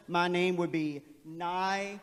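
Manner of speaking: "Nicolaz" with long vowels, nye-co-lays; open syllables. Shown as a demonstration. Teacher showing open-syllable reading of his name. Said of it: "if all of my syllables were open".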